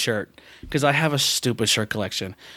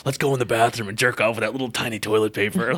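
hormone monster voice. Retold or imitated. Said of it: "hormone monster has that real deep voice".

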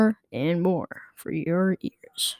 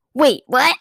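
loud, high, startled "Wait, what?"; shocked; 6 semitones higher, 7 dB louder than usual. Acted. Karen realises the cashier is the manager, loud and shocked. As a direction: catch her off guard completely.

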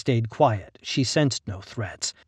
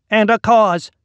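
whiny voice; 10 semitones higher, 10 dB louder than usual. A narrator's reading. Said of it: "a repellent whine".

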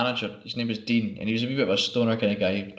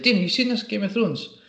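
higher call over to the counter; calling across the shop; 9 semitones higher than usual. Retold or imitated. Shouting over to Dean alone in the shop, higher call. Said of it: "I shout over to Dean".

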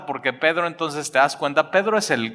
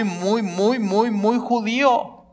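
each "muy" climbs higher, "judío" slow; emphatic build; 8 semitones higher, slower than usual. Real, not acted. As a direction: pile up the muys rising in pitch. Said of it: "emphatic repetition of muy".

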